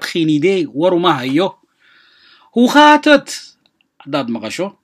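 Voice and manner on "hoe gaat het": loud, high and slow; lively greeting. Shown as a demonstration. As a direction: greet a friend with energy. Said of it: "teacher models greeting". (salaan firfircoon oo cod kor ah)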